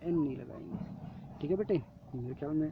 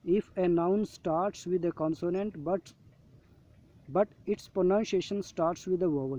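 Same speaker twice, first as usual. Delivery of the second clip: slow reading aloud; much slower than usual. Shown as a demonstration. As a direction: read the rule very slowly, word by word. Reading worksheet rule. (धीरे-धीरे पढ़कर सुनाना)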